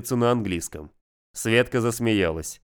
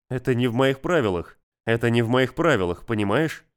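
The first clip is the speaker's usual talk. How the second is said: soft and coaxing. Acted. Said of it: "он говорил вкрадчиво и мягко".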